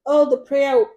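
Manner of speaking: pleading, rising to a loud blessing; beg, then pile on the blessings; mock begging customer. Customer begging the vlogger for free contacts, hammed-up pleading. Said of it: "She's like".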